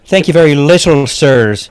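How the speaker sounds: wounded, polite Irish lilt; Irish accent. Acted. Guest feeling unappreciated by hosts, Irish accent. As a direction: complain as a slighted Irishman. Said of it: "It is an Irish accent".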